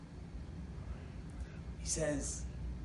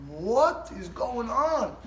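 mild mock yell, very drawn out; slow, higher-pitched mock outcry; imitated screaming neighbor; 4 semitones higher, 4 dB louder, much slower than usual. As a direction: stretch each word like an overheard row.

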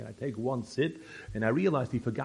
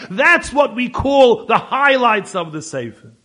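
loud, high, sarcastic tirade; mock the shortcut with scorn; indignant rant; 12 semitones higher, 14 dB louder than usual. Friend explains what Pninim means, loud scornful rant. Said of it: "He's all upset".

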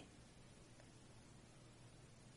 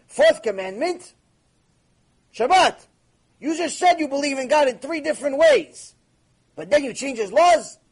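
louder, higher, slowed emphatic scolding; heated rebuke; 5 semitones higher, 6 dB louder than usual. Retold or imitated. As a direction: drive the point home with force. Climax of retold debate rebuke.

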